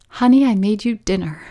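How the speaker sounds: a lightly voiced, doting wife calling her husband; sweet homemaker wife. Doting wife calling her husband to dinner, lightly sweet. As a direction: offer dinner like the ideal housewife, a touch sugary. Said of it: "I'm not the type of wife that's like".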